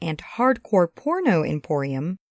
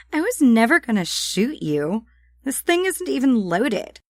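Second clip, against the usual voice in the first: put-on higher, breezy tough-girl voice; offhand Sam; 5 semitones higher than usual. Sam waves off the murder accusation, breezy. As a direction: brush the accusation off.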